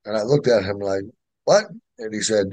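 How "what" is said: retold puzzled, higher-pitched question; taken aback. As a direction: ask it as if you can't believe him. Taken aback by sponsor's sudden offer.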